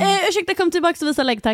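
high, overly polite plea; a hint of a prim complainer; mock polite request. Pretending to ask the flasher back, mock polite. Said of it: "men jag ska säga".

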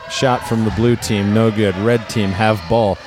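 caveman play-by-play. Acted.

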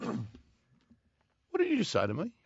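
high, slow, seething question; replaying his own outrage at the coach; mock furious. Confronting the coach, retold.

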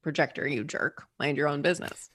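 muttered jab. Retold or imitated. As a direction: grumble it under your breath like an old grudge. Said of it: "we end up saying".

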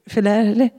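Filele, said tentatively with a rise; Filele, tried out as a guess; guessed name sound. Retold or imitated. Client on the phone guessing a name, tentative. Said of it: "make that sound that I think is her name".

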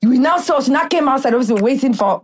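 put-on animated storytelling in thick Nigerian accent; deep Nigerian accent. Recounting a restaurant wait to a friend, deep Nigerian accent. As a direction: play up a heavy Nigerian accent. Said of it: "In my most deep Nigerian accent".

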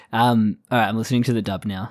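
normal talking voice

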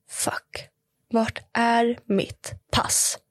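hushed, slow dread; whispered panic. Retold or imitated. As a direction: whisper the horror, drawn out. Retold panic, passport missing. (långsam skräckviskning)

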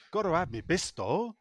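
lightly voiced Yorkshire husband; a hint of put-out Yorkshire bloke. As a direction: grumble as a joke's Yorkshire husband. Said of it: "said the husband".

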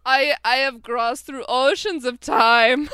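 put-on slow, loud Transylvanian accent. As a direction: deliver it like a Transylvanian count. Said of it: "like a Transylvanian accent".

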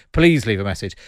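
lightly voiced answerphone greeting; a rough, half-hearted impression of a politician; Geoffrey Cox impression. Host imitates lawyer's answerphone message, lightly put-on voice. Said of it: "that's a terrible impression of Geoffrey Cox".

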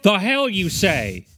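slow, drawn-out mock indignation; mock outrage. Co-host reacting to cultural appropriation claims, mock outrage. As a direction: play scandalised, stretching the words out.

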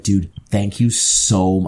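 slow, laid-on gratitude; pandering thanks. Retold or imitated. Retelling thanks to the lost-and-found clerk, mock pandering. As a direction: lay the thanks on slowly to pander. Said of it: "fucking pandering".

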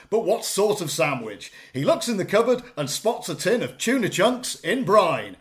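emphatic, theatrical storytelling; hammed-up narration; speech reading. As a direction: deliver a prepared tale with big rises and falls. Reads out written speech.

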